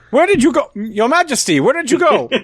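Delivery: bewildered calling. Acted. Adventurer calls for the vanished king, bewildered. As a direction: call after him, pitch jumping up.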